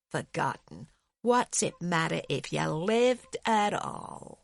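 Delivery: slow, weary cynic talking about death; a worn-out man sneering at life's worth; bitter philosopher. Acted. Bitter would-be philosopher speaks.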